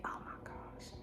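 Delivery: awed unvoiced whisper. Real, not acted. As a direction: breathe it in awe. Admiring plump lips.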